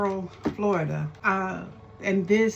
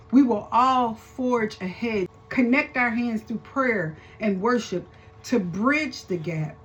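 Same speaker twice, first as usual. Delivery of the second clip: rousing preacher rallying her tribe; preaching; 3 semitones higher than usual. Acted. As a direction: preach it like Sunday morning. Commentator preaches over the mother.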